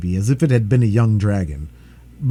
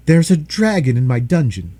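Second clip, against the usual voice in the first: excited blacksmith; 2 semitones higher, 5 dB louder than usual. Acted. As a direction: burst in with urgent news. John tells town officials.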